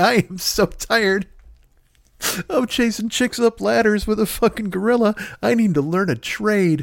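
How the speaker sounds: high, slow, laughing through tears. Repeating a joke to yourself at night, laughing to tears while talking. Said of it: "you have no idea that I'm crying right now".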